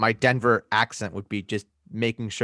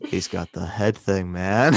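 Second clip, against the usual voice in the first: slow, lower stoner drawl; tired and stoned; 3 semitones lower, slower than usual. Pretend. Echoing co-host's joke, slow stoned voice. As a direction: echo it like a dazed pothead. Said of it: "sound tired and stoned".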